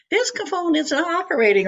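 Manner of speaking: whiny recorded message. Retold or imitated. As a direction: whine it like a phone recording. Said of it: "with a whiny voice".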